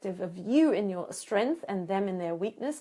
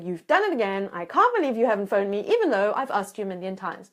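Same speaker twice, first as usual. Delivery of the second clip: mock angry voicemail; 4 dB louder, faster than usual. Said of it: "leaving him a voicemail going".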